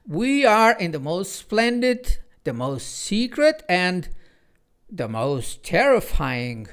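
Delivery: mock-scary clock announcing the forest; spooky emphasis. A narrator's reading. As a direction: linger ominously on the most terrifying. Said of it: "emphasize the effect of those last words".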